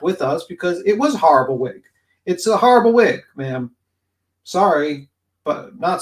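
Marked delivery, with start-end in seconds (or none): 2.3-3.7 emphatic. Real, not acted. Drama streamer mocking a rival's wig, loud and blunt. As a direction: say it flat out, then drop it cold.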